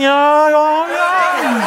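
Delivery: high, put-on voice of Juan, laughing; imitating Juan. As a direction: playfully mimic Juan's eager yes. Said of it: "Og Juan er sådan".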